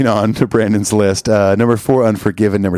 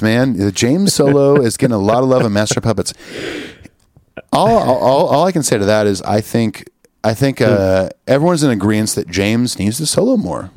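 usual speaking voice

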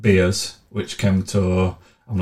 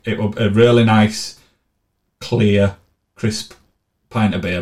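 a hint of a posh food reviewer; lightly played food critic praising a pint; mock food critic; 2 semitones higher, 4 dB louder than usual. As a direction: savour each word like a wine taster, lightly hammed. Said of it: "I'm turning it a food critic".

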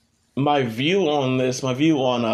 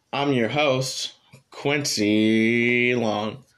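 pathetic; 2 semitones lower, much slower than usual. Real, not acted. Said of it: "the most, like, pathetic".

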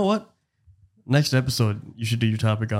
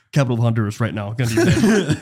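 imitating friend's demand; 3 dB louder than usual.

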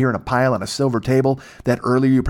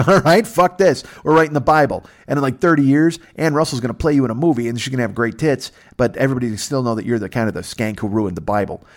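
mock angry rant; 2 semitones higher, 3 dB louder than usual. Spurned guy ranting.

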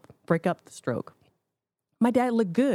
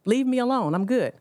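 retold yell; 5 semitones higher than usual. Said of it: "I hear my dad yell".

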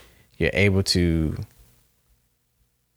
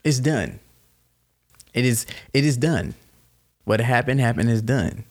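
calming the mate. Retold or imitated. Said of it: "and just like".

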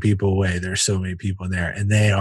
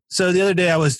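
raised-pitch joke opener; stage delivery; 8 semitones higher, faster than usual. Retold or imitated. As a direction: launch into a bit for the room. Comic starts his bit onstage.

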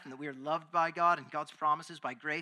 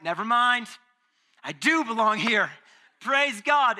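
loud, higher, elated exclamation; acted joyful relief; 5 semitones higher, 9 dB louder than usual. Preacher voicing a Gentile reading the letter, acted joyful relief. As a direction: play someone suddenly thrilled to belong.

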